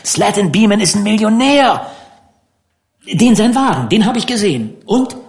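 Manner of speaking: put-on a touch of a kid showing off; boastful, eager boy. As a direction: try to top him with a big story. Dan boasts about the millionaire.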